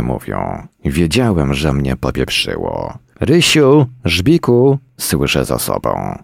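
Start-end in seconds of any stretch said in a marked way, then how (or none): 3.2-4.8 high, loud sing-out of names; calling dogs. A narrator's reading. Woman behind the man calls her dogs, high and loud. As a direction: call the pets over from a distance.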